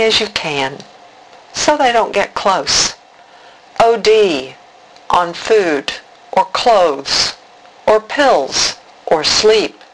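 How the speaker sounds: measured poem reading with deliberate pauses; spoken verse in short, separated phrases; poem recital. Acted. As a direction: recite line by line, letting each phrase land.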